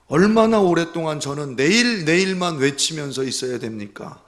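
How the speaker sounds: loud, high, pleading cry to God; a desperate, loud prayer of lament; anguished lament. Retold or imitated. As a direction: wail the confession out in anguish. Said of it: "이렇게 고백했다는 겁니다".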